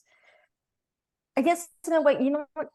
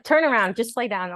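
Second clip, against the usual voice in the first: doctor's order; 4 semitones higher, 4 dB louder than usual. Retold or imitated. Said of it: "He's like".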